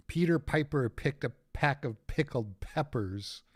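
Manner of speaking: Peter Piper said softly, punching each P; plosive test. Shown as a demonstration. Streamer testing pops on his new filter, P's pushed out. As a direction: test the P sounds into the mic. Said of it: "help with, like, the, the P's".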